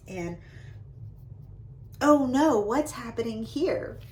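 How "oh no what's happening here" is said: mock alarm. Shown as a demonstration. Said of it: "add to that excitement".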